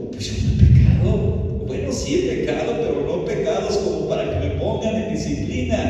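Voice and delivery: object, then backtrack in a high voice; protesting innocence. Retold or imitated. Accused man to the church elders, protesting his innocence.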